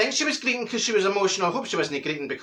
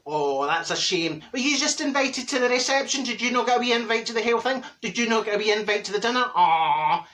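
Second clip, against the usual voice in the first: mock pity; 4 semitones higher than usual. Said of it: "trying not to make them feel bad".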